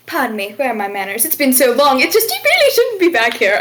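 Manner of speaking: sweetly polite hostess turning sharp; a tavern keeper glaring at Patrick, mock-polite then rising. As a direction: play an innkeeper forcing manners through a glare. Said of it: "she kinda glares at Patrick and goes".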